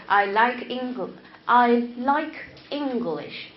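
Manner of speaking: slow, even, word-by-word "I like English"; every word of "I like English" equally weighted, no rhythm; flat English. Shown as a demonstration. Teacher showing students rhythmless English, flat. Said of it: "But this is very flat".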